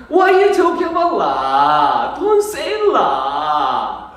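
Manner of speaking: 중국식 영어 흉내; mock Chinese English. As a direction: drag it out, half sung. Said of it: "중국입니다".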